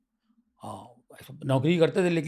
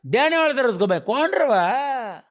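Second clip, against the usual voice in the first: Tamil-Bambaiya street slang; 6 semitones higher than usual. Retold or imitated. A local snapping back at a rival, Tamil-Bambaiya slang. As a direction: answer back like a Dharavi tough. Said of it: "वही language Tamil में".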